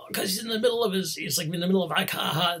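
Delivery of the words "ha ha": short imitated villain's "ha, ha"; mock demonic laugh. Imitating the ogre mid-laugh, mock demonic laugh. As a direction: lightly act out a demon's laugh. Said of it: "this demonic laugh".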